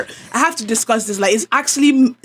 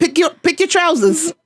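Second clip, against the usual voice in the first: mock English accent; 4 semitones higher than usual. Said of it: "now England accent".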